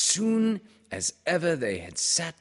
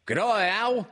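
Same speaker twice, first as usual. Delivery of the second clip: put-on much higher, squeaky child's voice; high, eager squeaky greeting; squeaky little Roo; 12 semitones higher, 8 dB louder than usual. A narrator's reading. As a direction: squeak it out like an excited little kangaroo. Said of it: "he squeaked".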